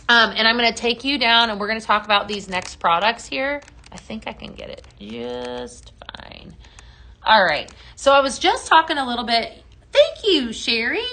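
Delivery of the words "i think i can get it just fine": whispered aside. Real, not acted. Muttered aside to herself mid-stream.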